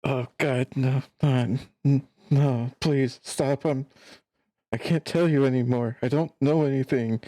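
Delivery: terrified begging; frightened pleading. Acted. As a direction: plead like a broken captive who thinks he'll be hurt. Prisoner begs, thinks interrogation.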